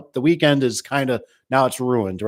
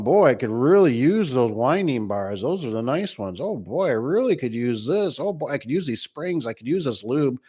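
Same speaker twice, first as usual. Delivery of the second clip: imitating tempted employee. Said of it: "keep you from going".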